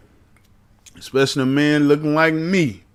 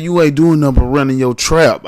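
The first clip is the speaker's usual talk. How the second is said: louder, firm cop voice; mock cop; 6 dB louder than usual. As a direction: bark it like a cop. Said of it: "One cop walk up to me and said".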